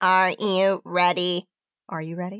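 flat, monotone, machine-like robotic voice. A black-hooded figure steps in front of the listener, speaking in a robotic voice. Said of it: "A robotic voice says".

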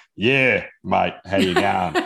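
slow, stereotypical, cliche Australian accent. Contrasting subtle australian vowels with a stereotype: cliche australian accent. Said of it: "a beautiful way of sounding Australian without going".

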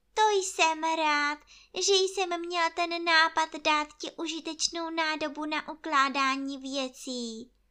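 happy, glad, satisfied delivery. Reading a story aloud, a character speaks to his friend: said happily. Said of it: "řekl půšťastně".

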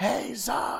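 put-on very high-pitched call in thick Australian accent. Speaker retells a man calling his name from across a field, thick Australian accent. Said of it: "with this thick Australian accent".

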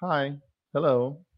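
flat, unenthusiastic, lifeless, low-energy tone. One host mocks the other's greeting on Dealer Talk, mimicking a low-energy hello. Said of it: "you got to have some energy".

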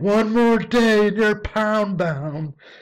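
very high-pitched, loud screaming. Retelling a scene where Jerry threatens the dog: imitating Jerry screaming. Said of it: "Jerry just starts screaming. He's like".

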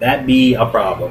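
ordinary talk

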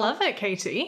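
ordinary talk

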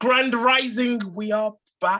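very high, loud, drawn-out shout. Host opening the show's introduction while the co-host objects, shouting. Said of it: "Stop are shouting".

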